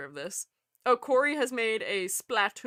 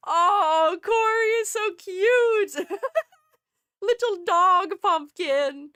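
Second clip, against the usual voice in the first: gushing laugh; 8 semitones higher, 7 dB louder, much slower than usual. Real, not acted. Gushing over cute pumpkin drawing.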